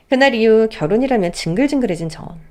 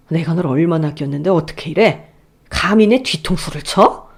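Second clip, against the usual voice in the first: a father stung by betrayal; betrayed father; 4 semitones lower than usual. Acted. (배신감에 떠는 아버지, 낮고 느리게)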